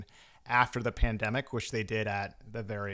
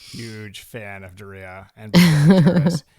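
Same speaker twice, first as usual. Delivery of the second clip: mock gushing; 14 dB louder, slower than usual. Mock gushing about Diriyah.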